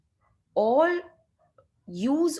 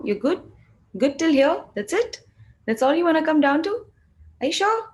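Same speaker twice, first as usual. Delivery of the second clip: much higher and louder, cooing at the barriers; playful coaxing; 7 semitones higher, 4 dB louder than usual. Pretend. Coach cooing at the energetic barriers, high and playful. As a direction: talk to them like a shy pet.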